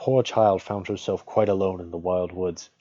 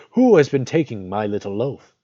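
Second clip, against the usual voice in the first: a bit louder, indignant dwarf question; second dwarf; 3 semitones higher, 7 dB louder than usual. A narrator's reading. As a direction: ask it like a put-out little dwarf. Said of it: "The third said".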